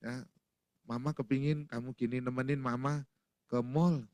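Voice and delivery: soft, low coaxing; quiet, polite pleading; sweet wifely request. Acted. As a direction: ask your husband gently for a favour. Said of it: "istri bilang sama papa".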